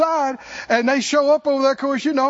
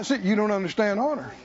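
normal talking voice

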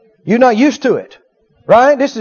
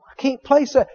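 softer, hesitant thought aloud; doubtful musing; 6 dB quieter than usual. Acted. Listener inside still cannot place the voice, doubtful. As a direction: mull it over softly, unconvinced. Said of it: "You go".

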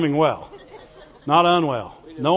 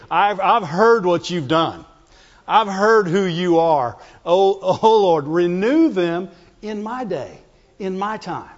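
prophet's prayer; 4 semitones lower than usual. Acted.

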